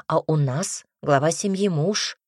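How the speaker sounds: huffy, emphatic lecture; stubborn, offended insistence; sulky. Acted. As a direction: put the mistress in her place, mildly sulking. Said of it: "надулась Марта".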